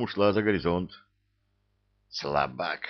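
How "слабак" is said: scoffing. A narrator's reading. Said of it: "хмыкнул дьявол".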